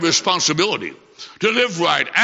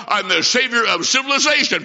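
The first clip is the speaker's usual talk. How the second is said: mock-proud boast; 4 semitones higher than usual. Boy boasts to his mother.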